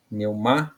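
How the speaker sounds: "Pneumático" split into separate syllables. Shown as a demonstration. Teacher showing pupils the syllable split, "Pneumático" said syllable by syllable. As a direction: break "Pneumático" apart, a pause between syllables. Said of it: "então a separação ficou assim".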